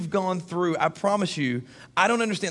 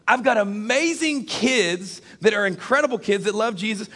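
higher, emphatic preacher's delivery; emphatic preaching; 4 semitones higher, slower than usual. Acted. Preacher telling the congregation why he trusts God, emphatic preaching. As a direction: testify with conviction, pitch lifted.

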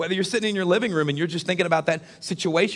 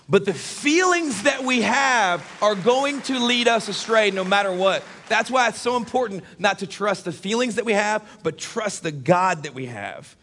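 raised, emphatic warning from the pulpit; emphatic preaching; 3 semitones higher, slower than usual. Acted. Preacher warning the congregation about trusting feelings, emphatic preaching. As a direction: drive the warning home with a lifted voice.

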